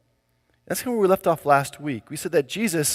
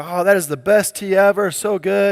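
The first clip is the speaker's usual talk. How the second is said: gushing praise; 3 semitones higher, 4 dB louder than usual. Acted. Dad humours daughter's pretend tea.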